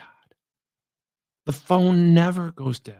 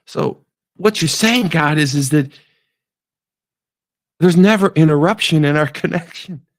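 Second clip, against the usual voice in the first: eager; 7 dB louder than usual. Acted. Todd answers excitedly.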